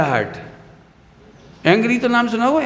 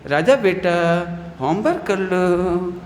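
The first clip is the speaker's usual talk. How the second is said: slow, coaxing mother voice; loving mother; 2 semitones lower, slower than usual. Retold or imitated. Mother coaxing her child to do homework, slow and loving. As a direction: coax the child gently, slowly, like mum. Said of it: "mummy आपको बड़े प्यार से बोलती है".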